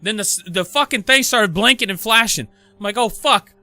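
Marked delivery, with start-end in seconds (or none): 3.0-3.5 loud, high-pitched cursing at oneself; freaking out. Retold or imitated. Man who put the code in wrong, freaking out. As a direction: relive the frustrated panic. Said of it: "So I'm freaking out".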